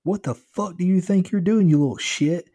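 high, loud, outraged yelling; angry scream. A narrator's reading. Driver finds his smashed window, screams at the kid. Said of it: "he screamed".

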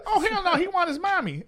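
Amish voice. Retold or imitated. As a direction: taunt him in a high mocking Amish voice. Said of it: "In the Amish voice".

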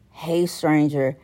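slow, soft, teasing "Hey, stranger"; drawn-out hey stranger. Retold or imitated. Quoting a random text, slow sly "Hey, stranger". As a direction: stretch "Hey, stranger" out slowly and softly, like a sly greeting. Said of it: "why are you hitting me up with the".

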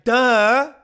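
a mocking duh; obvious duh. Real, not acted. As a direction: toss it off as if it's obvious.

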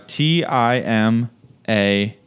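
slow letter by letter; spelling it out. Real, not acted. Spelling name to type.

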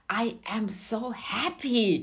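slow, drawn-out mock bliss; blissful exclamation. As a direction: stretch it out with mild elation. Retelling waking up elated.

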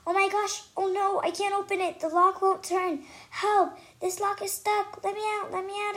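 high, loud panic at a stuck lock; panicked scream. Acted. Girl trapped in a bathroom, panicked high cries. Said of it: "I scream".

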